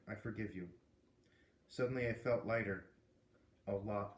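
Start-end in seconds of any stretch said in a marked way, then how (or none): 0.1-0.7 much softer, gentle forgiving whisper. A narrator's reading. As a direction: breathe it quietly into his ear. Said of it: "he whispered in my ear".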